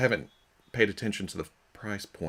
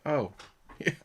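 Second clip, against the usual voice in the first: golf commentator; 6 semitones higher than usual. Retold or imitated. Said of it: "He's just kinda like".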